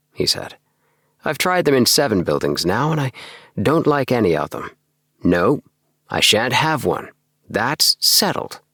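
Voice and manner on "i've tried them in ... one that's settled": higher, fussy little man set on his mind; lightly higher voice of a stubborn little man; fussy little Appleby, firm. Acted. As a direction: voice the small odd man, decided. Appleby's voice in the story.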